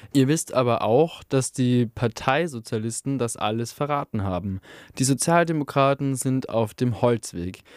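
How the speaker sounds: lightly voiced agitator, sardonic; a hint of a passionate anarchist orator; fiery anarchist speech. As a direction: win over the miners with scorn for the party.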